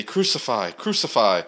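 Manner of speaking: loud frenzied crowd cry; shouted in a frenzy. A narrator's reading. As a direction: shout it like an angry mob. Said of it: "they shouted in a frenzy".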